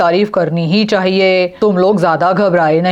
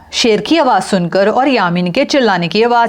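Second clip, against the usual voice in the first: story narration; 5 semitones higher than usual. A narrator's reading.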